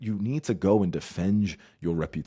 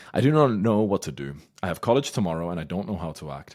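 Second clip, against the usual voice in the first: reading the caller's post; 8 dB louder than usual. Retold or imitated. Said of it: "reading posted message".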